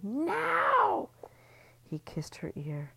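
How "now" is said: sudden high, loud cry of want; a lover's urgent high outcry. A narrator's reading. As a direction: let it burst out high. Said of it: "her body screamed".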